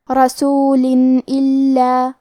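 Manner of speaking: رسول الا slow, a clear ن sound before الا; izhar of tanween. Shown as a demonstration. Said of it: "تنوین کو ظاہر کریں گے". (تنوین کا اظہار بغیر غنہ)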